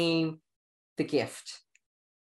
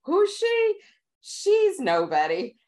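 high, slow mocking voice; mock high dismissive voices; imagined sneering audience; 4 dB louder, slower than usual. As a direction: sneer it like a doubting crowd. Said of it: "They're gonna hear my Queens accent".

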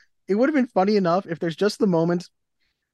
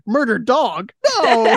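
dismayed; 6 semitones higher, 5 dB louder, much slower than usual. Retold or imitated.

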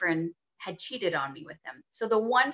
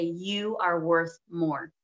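slow, deliberate voice telling her her worth; each word laid down slowly and evenly; the voice saying it; 3 semitones lower, much slower than usual. Retold or imitated. A voice in the nightclub bathroom stopping her, slow and deliberate. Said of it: "It was so loud".

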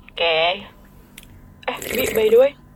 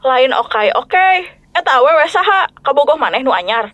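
Sundanese. Acted. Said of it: "Udah ngomong bahasa Sundanya".

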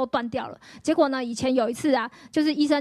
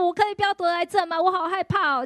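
higher, pleading tearful question; replaying her fearful prayer, higher; retold frightened plea; 5 semitones higher than usual. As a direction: plead with God, scared and crying. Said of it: "我就突然大哭".

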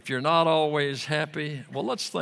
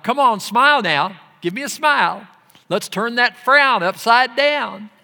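much higher, louder hammed-up cheerleading; overbearing fake cheer; mock cheery idiot; 8 semitones higher, 8 dB louder than usual. A clueless comforter pestering the grieving, hammed-up cheery. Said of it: "act like an idiot trying to cheer up".

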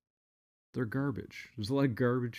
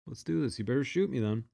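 challenging; 7 semitones higher, 4 dB louder than usual. Retold or imitated. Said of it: "I said".

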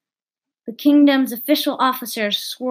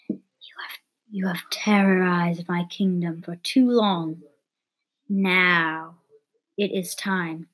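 menacing whisper; 4 semitones lower than usual. Acted. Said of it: "Queen threatens Georgina".

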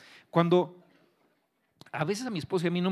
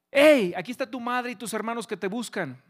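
raised, higher calling-out; retold shout; 6 semitones higher, 4 dB louder than usual. Man calling to Jesus among the people, mild imitated shout. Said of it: "un hombre gritó y dijo".

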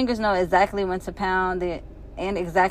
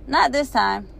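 calling back; 6 semitones higher than usual. Acted. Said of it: "yells back".

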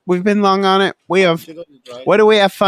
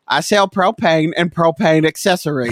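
put-on Southern accent.

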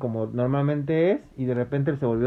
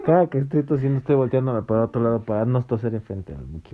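voz tapada por la mascarilla; con tapabocas. Real, not acted. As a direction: habla a través de un cubrebocas. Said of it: "si me escuchan un poco extraño es que traigo el tapabocas". (a través del tapabocas)

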